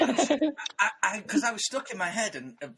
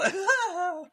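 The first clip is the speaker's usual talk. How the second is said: high, forced demonstration laugh; fake laugh; 11 semitones higher than usual. Shown as a demonstration. Co-host with famous laugh trying to fake one, forced laugh. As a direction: attempt a laugh on demand and fake it. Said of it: "I can't do a fake one".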